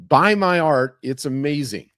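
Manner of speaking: loud, punchy opening, easing off; hammed-up hard sell; pushy sales pitch. Artist plugging his work at a coffee shop, pushy.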